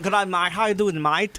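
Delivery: imitated Aussie greeting; mock-Australian mate talk; Australian accent. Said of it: "I really love the, the accent".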